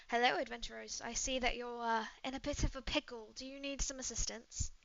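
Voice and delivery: lightly voiced British woman; polite British-accented greeting. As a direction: offer help in a mild British accent. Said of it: "She's British".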